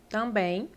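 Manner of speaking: "Também" said alone as a model, ending in "bẽj"; também demo. Shown as a demonstration. Teacher showing students the word "Também", careful model. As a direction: model "Também" cleanly, with the glide at the end. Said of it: "quando eu escrevo aqui a palavra também".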